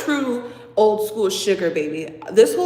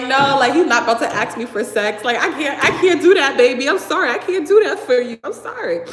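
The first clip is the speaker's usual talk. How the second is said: flustered apology; 3 semitones higher, 4 dB louder than usual. Retold or imitated. Flustered refusal voiced in story.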